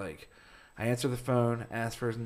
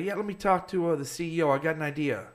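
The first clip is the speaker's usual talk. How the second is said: mock brash caller, pitched up; pushy caller; 6 semitones higher than usual. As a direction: play the brash caller wanting the CEO. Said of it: "he's like".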